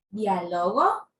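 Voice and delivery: Diálogo said as dia-LO-go, slow, ending on a rise; slow, low Diálogo with the stress moved to LO; stress on middle syllable LO. Shown as a demonstration. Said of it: "Miren la diferencia".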